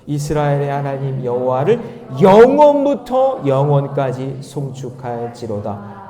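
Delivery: slow, drawn-out congregational verse reading; measured Bible recitation; scripture read aloud. Acted. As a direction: lead the verse loudly, then ease off at the close.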